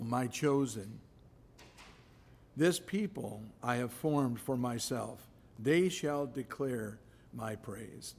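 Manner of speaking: measured, emphatic Bible reading; scripture reading. Acted. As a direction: proclaim the verses firmly, phrase by phrase. Reads scripture aloud to congregation.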